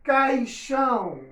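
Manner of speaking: Caixão slow, sounding the ai glide; teacher's slow model Caixão; careful diphthong. Shown as a demonstration. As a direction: say Caixão slowly, cai-xão with the i. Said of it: "Aí escrevo lá bonitinho, caixão".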